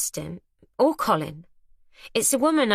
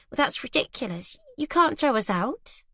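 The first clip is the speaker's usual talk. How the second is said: nervous disbelief; 6 semitones higher than usual. Acted. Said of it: "A nervous laugh".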